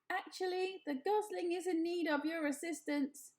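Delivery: bright, even robot voice; friendly robot voice. A narrator's reading. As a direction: speak as a kindly robot. Roz the robot speaks.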